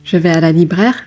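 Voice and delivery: quick "libraire" with the final "ee" lost, rising at the end; mispronounced word. Shown as a demonstration. Teacher replaying a learner's slip to a listener, mispronounced. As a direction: swallow the ending of "libraire". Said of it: "that altogether sounds weird".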